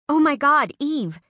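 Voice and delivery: high, loud burst of delight; thrilled high cry of her friend's name; excited squeal. Acted. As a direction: squeal it like the best gossip ever.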